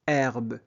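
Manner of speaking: « Herbe » sans souffle au début; h muet. Shown as a demonstration. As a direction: commencer « Herbe » directement sur le è. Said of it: "On ne prononce jamais la lettre H". (« Herbe » avec le H muet)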